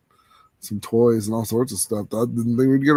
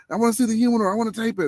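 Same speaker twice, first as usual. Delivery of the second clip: imitating his eager son; 10 semitones higher, much faster than usual. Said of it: "you know, the".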